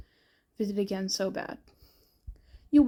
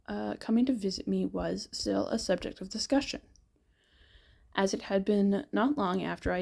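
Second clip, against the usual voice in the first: voice dying. Real, not acted. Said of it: "my voice dying".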